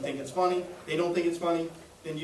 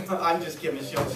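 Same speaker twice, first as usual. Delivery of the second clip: laughing just kidding. Shown as a demonstration. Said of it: "voice inflection".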